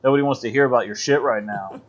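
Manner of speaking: irritated snap, fast at the end; angry Amos. Retold or imitated. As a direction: tell him off impatiently. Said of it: "Amos is like".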